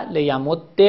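لیمد with a doubled dal ending in short e; assimilated, kasra ending. Shown as a demonstration. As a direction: merge the dals of لیمد and close on -dde. (لیمد با دال مشدد و کسره)

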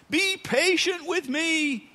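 high, slow, drawn-out pleading; begging servant. Acted. Servant on his knees begging his master, high and slow. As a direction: beg for mercy on your knees. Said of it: "he begged".

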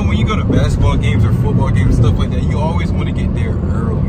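talking in a bouncing car; on a bumpy road. Real, not acted. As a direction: voice jolted by car bumps. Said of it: "sorry about the bumps and stuff in the car".

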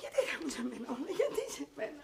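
crumble into a small, plaintive complaint; self-pitying wail. Acted. Actress asking why it all happens to her, wailing.

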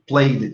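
"played" in one syllable, play-d. Shown as a demonstration. Teacher models "played" with only a D sound. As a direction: end "played" on a plain D. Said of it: "como se fosse só o som do D".

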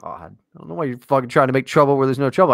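fast whisper, muttered to himself; whispered grumble. Acted. Muttering about his co-host making trouble, whispered. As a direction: grumble it under your breath, quick.

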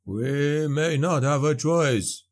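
slow, lightly voiced gloomy cousin; a touch of a mournful moan; understated grim warning; dour moan. A narrator's reading.

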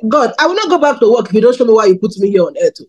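quick, offhand remark to God; tossed-off casual prayer. Retold or imitated. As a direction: say it fast and casually, no weight on it. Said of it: "very casually".

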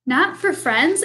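rising questioning Not for friends?; wondering echo. Acted. Mouse hearing he counts as a friend, wondering question. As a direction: echo it back in happy wonder.

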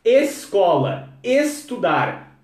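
escola, estudar. both opened on a clear E, said slowly; Brazilian E sound. Shown as a demonstration. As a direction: lean on the E at the start of each word. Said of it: "Nós brasileiros amamos a letra I".

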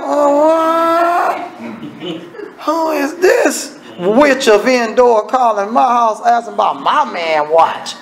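hammed-up wife, indignant, breaking into a laugh; mock outrage from the wife, lightly voiced; a touch of a furious wife, half laughing; outraged wife. Wife reacts to the call.

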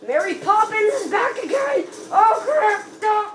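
high-pitched call of alarm; alarmed shout. Real, not acted. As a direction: cry out as the enemy returns. Enemy returns in the game.

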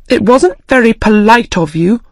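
a touch of angry reproach; angrily. Acted. Alice mildly angry, rebuking the March Hare. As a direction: mildly scold him for rudeness. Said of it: "Alice said angrily".

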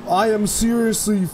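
slow, drawn-out dread; shell-shocked, slow frightened pleading; scared. Real, not acted. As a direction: stretch the words out, pleading to be saved. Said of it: "I am scared as balls".

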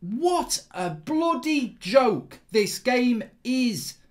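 weary disgust. Real, not acted. Slow, disgusted.

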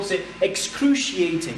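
excruciating, syllabe cru appuyée, lent; accent sur le U. Shown as a demonstration. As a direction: appuie le U de excruciating. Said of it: "l'accentuation se fait sur le U". (excruciating, accent tonique sur le U)

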